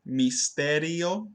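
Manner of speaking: "misterio" slowly in four syllables, i and o apart. Shown as a demonstration. Student repeats her error, "misterio" in four syllables. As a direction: split the i and o of "misterio". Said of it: "pronounced it as four".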